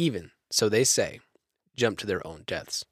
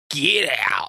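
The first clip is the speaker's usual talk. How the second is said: mock ghost shout; 4 semitones higher, 4 dB louder than usual. Ghost voice after retelling voices.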